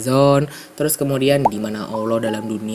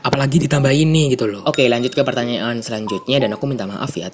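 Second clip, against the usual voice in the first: stuffy blocked nose; faster than usual. Real, not acted. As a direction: talk through a stuffed-up nose. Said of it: "tiba-tiba suaraku bindeng gitu".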